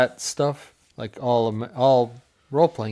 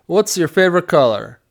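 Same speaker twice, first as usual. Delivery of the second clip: raised, loud mock challenge; bridge questioner; 5 semitones higher, 6 dB louder than usual. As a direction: put the question like a comic gatekeeper. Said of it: "the guy's like".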